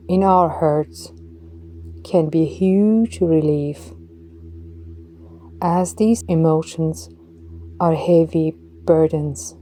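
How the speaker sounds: ordinary talk, nothing marked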